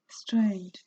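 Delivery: breathy musing whisper; whispered aside. Real, not acted. Vlogger marvelling at her own videos, whispered. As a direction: whisper it to yourself.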